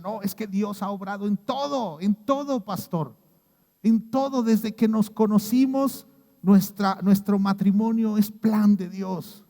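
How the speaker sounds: excited praise. Retold or imitated. Church couple praising God to pastor.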